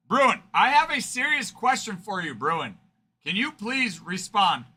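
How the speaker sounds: mock-serious call for an answer. Real, not acted. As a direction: hail him across the room. Calling out to silent chatter.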